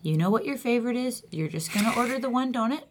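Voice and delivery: measured self-coaching pep talk; lightly acted stern talk to yourself; internal monologue. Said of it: "what goes on inside my head".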